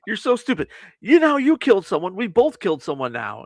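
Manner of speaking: high, exasperated retold outburst; mock scolding. Acts out characters' scolding quarrel.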